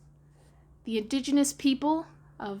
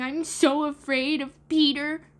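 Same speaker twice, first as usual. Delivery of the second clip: afraid; 5 semitones higher, 5 dB louder than usual. Acted.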